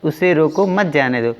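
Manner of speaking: उसे रोको rising, short break, मत जाने दो level; pause after रोको. Shown as a demonstration. Teacher explaining the first sentence to students, pause after रोको. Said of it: "पहले वाक्य में जाने से रोका जा रहा है".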